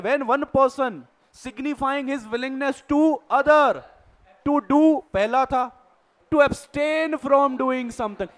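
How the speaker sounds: reading a legal definition out slowly, word by word; slow, deliberate dictation of a definition. Shown as a demonstration. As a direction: spell out the definition slowly for note-taking.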